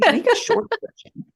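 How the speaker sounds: squeaky high exasperated quip. Real, not acted. Complaining to a friend about long drink names, squeaky and high. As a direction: pitch it way up, fed up.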